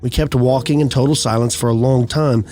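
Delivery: measured storytelling read, pausing between phrases; unhurried campfire-tale narration; story narration. A narrator's reading. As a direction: read an eerie first-person account evenly and deliberately. Reads out a first-person eerie account.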